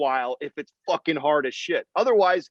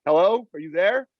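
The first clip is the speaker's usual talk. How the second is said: mock hello; 3 semitones higher, 4 dB louder than usual. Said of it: "I'm like".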